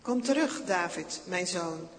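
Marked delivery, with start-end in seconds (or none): 0.0-0.6 calling out. A narrator's reading. Saul calls David back.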